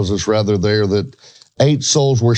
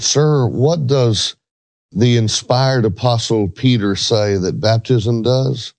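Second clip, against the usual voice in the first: kindly; slower than usual. Retold or imitated. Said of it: "And then I said kindly".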